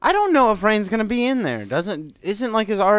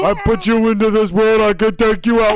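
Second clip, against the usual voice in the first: sharp scolding mother; 2 semitones higher, 4 dB louder than usual. Retold or imitated. Voicing mom threatening son.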